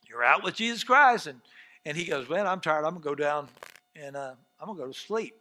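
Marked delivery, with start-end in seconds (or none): 2.3-5.4 low, soft, weary murmur; tired. Acted. Jesus on the boat heading below to sleep, tired. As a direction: quietly say it, ready to drop off.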